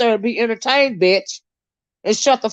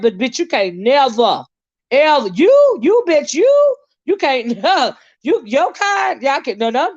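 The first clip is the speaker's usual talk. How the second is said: frustrated outburst; 5 semitones higher than usual. Real, not acted. Streamer to a viewer who called her racist, rising anger. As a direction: build the anger word by word. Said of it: "that I got frustrated".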